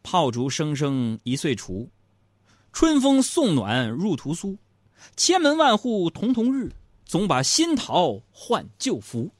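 slow, measured classical recital; poem recital. Shown as a demonstration. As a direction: chant the verses slowly. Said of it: "什么".

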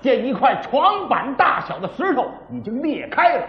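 dramatic pingshu storyteller voice, rising to the cliffhanger; storyteller narration. Acted. Storyteller tells listeners the cave-in, in a dramatic pingshu voice. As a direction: spin the tale like a pingshu teller.

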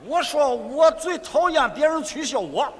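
put-on 我说我最讨厌别人取笑我 in a Shandong accent. Osvaldo's line dubbed in Shandong dialect, in a Shandong accent. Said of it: "我是山东的奥斯瓦尔多".

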